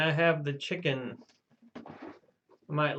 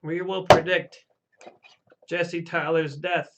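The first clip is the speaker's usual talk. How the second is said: mock prophecy; 3 semitones higher, 4 dB louder than usual. Mock séance prophecy on request.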